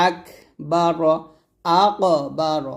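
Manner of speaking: আকবার slow with a bouncing echo on ক; echoing qalqala. Shown as a demonstration. Teacher demonstrating qalqala in আকবার. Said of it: "কফের উপর সুকুন থাকলে কলকলা হবে".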